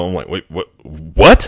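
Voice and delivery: ordinary talk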